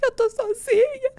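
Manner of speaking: very high, drawn-out sobbing wail; exaggerated full-on crying squeal; mock crying. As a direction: bawl it slowly like an abandoned child. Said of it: "Comecei a chorar, falei".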